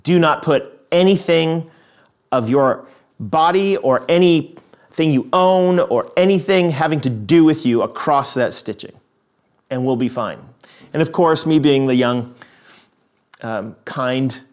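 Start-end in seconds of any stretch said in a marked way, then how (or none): 0.0-10.4 measured mock ultimatum; sister laying down rules. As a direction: lightly imitate a bossy sibling setting terms. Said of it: "she'd immediately say to me".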